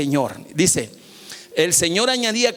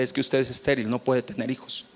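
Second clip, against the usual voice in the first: doctor's verdict; 6 semitones lower, 6 dB quieter than usual. Retold or imitated. Pastor voices doctor's verdict.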